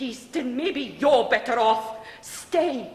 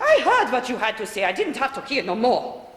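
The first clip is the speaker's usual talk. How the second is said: bitter retort; 2 semitones higher, 6 dB louder than usual. Acted. Mother and daughter quarrel.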